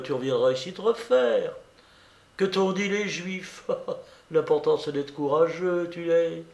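a hint of a teasing young woman; Blanche.

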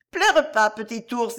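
put-on high, small childlike voice, comforting; a toddler soothing a crying friend; little girl voice. Little Violette comforting the weeping bear boy, high childlike voice.

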